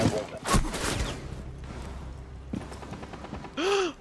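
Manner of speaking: high breathy startled gasp; sharp gasp. Real, not acted. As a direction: gasp in shock. Teammate rushes in.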